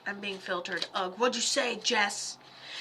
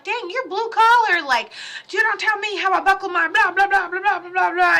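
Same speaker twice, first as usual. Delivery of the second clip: blunt dismissive retort; 7 semitones higher, 6 dB louder than usual. Acted. Voicing the spirit's blunt retort.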